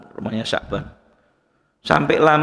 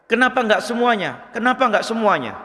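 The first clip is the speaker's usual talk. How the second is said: raised higher, a dying man raving in his sleep; delirious raving; 8 semitones higher than usual. Retold or imitated. Preacher voicing the dying man's second cry, higher delirious tone. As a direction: let it float up like a fevered dream. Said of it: "mengigau seperti itu".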